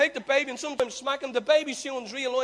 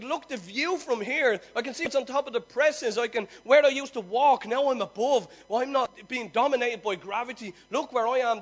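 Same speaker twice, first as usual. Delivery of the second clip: put-on exultant child; 6 dB louder than usual. Toddler exulting on the fridge top.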